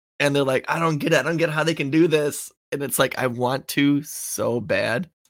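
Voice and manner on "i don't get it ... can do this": mock frantic, baffled, fast, panicky fretting. Retelling women online upset about the vote: imitating someone freaking out. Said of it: "they're freaking out about this".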